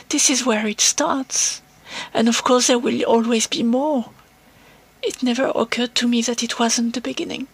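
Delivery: reading in English with an English accent. Shown as a demonstration. Reading a favourite film quote aloud to the podcast, in an English accent. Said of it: "vous lire ça avec mon accent anglais".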